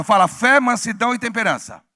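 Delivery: loud unison reading; loud call-out. Shown as a demonstration. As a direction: call the last words out loud. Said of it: "E a última coisa".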